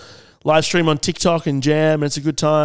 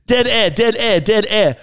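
raised call of dead air; mock alarm call; 6 semitones higher, 4 dB louder than usual. Real, not acted. Host to co-hosts on the silence, a raised mock alarm. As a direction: announce the silence, loud and high.

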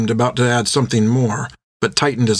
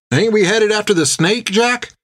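high-pitched sailor's question; surprised, much higher voice; puzzled crewman; 10 semitones higher than usual. Acted. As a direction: query the captain, pitch climbing at the end. Topper questions the captain, puzzled.

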